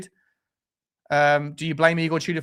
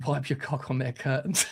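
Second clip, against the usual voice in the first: laughing punchline; 5 dB quieter than usual. Real, not acted. Crude punchline through laughter.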